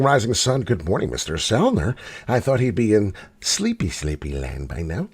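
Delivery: ordinary talk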